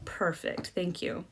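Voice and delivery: soft closing thanks. Shown as a demonstration. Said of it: "you should always end by saying".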